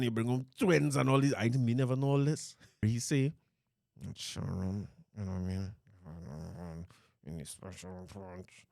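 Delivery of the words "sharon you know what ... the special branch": much softer, low murmured aside; hushed secret. Retold or imitated. Retelling the man's gossip, hushed like a secret. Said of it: "I don't want to talk nothing too loud".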